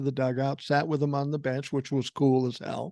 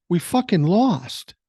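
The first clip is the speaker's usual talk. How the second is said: put-on slow, louder gruff old owner; grumpy retort; 5 semitones higher, 5 dB louder, slower than usual. Team owner to kid reporter, grumpy and slow. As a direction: bite the words out like a sore loser.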